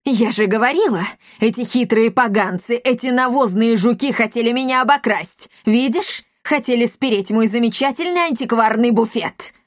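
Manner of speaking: put-on spiteful old woman scolding; angry landlady. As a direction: sneer at the thieving brats.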